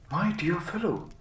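high-pitched cry of dismay; concerned cry. Acted. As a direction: call out to your sick friend. Doctor cries out to sick friend.

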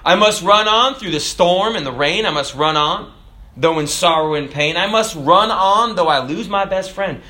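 rhythmic, preached recitation of a hymn; recited hymn. Acted. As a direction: declaim the chorus like a preacher.

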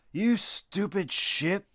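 put-on older brother yelling at his little brother; furious yell. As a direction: spit each word at your brother. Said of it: "yelled the tall boy".

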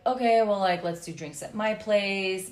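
mock-bored voice note, dragging at the end; bored imitation. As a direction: imitate a man half-heartedly suggesting drinks, slowing down. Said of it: "he sounded so bored".

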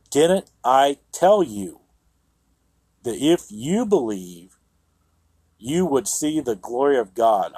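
a firm, exasperated reminder; aggravated Jesus. Shown as a demonstration. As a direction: pastor acting out an exasperated Jesus. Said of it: "he's a little aggravated right there".

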